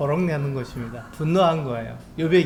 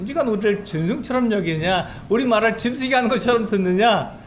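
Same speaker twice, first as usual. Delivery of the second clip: retold angry rebuke; 6 semitones higher than usual. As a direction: voice Bildad scolding Job, building in anger. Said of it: "이 빌닷이 화를 내는 거죠".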